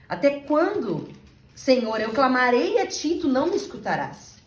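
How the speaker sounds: crying out. Retold or imitated. Habakkuk crying out to God, slow loud plea. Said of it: "Quando ele grita".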